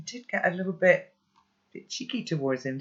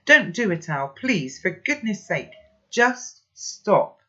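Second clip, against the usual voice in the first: louder, pleading grandpa; urgent plea; 5 semitones higher, 6 dB louder, slower than usual. Acted. Grandpa urgently begging Al to stop, loud plea. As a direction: beg him to stop.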